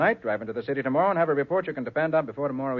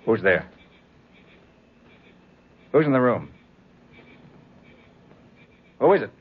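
sharp, louder calls into the dark; calling out; 6 dB louder than usual. Acted. Detective calls into his dark hotel room, loud and wary. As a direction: challenge the unseen intruder.

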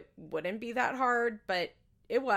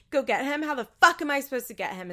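louder, higher, outraged retort; mock yelling; 5 semitones higher, 6 dB louder, faster than usual. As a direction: imitate an incredulous shouted comeback. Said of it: "starts screaming".

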